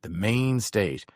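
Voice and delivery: slow drawn-out club announcer call; strip club announcer. Pretend. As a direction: stretch it out like a club MC. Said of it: "I could announce at a strip club".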